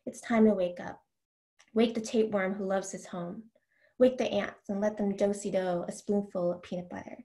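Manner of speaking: measured, deliberate poetry recital; reading verse to an audience; poem reading. Acted. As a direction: let each image land as you read. Reads her poem aloud.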